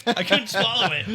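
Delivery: strained through a sour mouthful; eating sour candy. Real, not acted. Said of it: "Oh God!".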